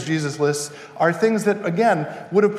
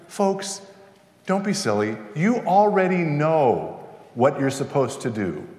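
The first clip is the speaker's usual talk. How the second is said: calm and gentle; 3 semitones lower, 4 dB quieter than usual. Retold or imitated. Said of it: "dialing down the emotional temperature".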